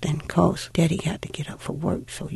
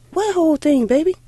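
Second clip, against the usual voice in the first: higher, gently puzzled question; a mother humoring her child; 11 semitones higher, 3 dB louder, faster than usual. Retold or imitated. Mother asking her little girl what she means, puzzled.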